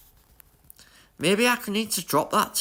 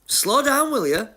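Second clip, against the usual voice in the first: excited; 10 semitones higher, 3 dB louder than usual. Real, not acted. Yelling at fast rival car.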